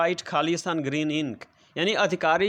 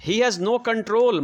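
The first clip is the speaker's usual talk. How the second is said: very slow, each word spaced out for the class; slow dictation; 5 semitones higher, 4 dB louder, much slower than usual. Shown as a demonstration. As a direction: read it out word by word as if dictating to pupils. Teacher dictating example sentence. (बहुत धीरे, शब्द-शब्द बोलकर लिखवाना)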